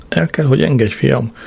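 lightly voiced choking plea; groaning. A narrator's reading. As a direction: gasp it out while being hugged too tight. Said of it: "nyögte apám".

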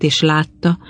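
ordinary delivery

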